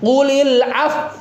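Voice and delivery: Qulil af- with lips pushed forward, slow; lips pursed. Shown as a demonstration. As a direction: round the lips into a pout on af-. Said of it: "tapi monyongnya belum".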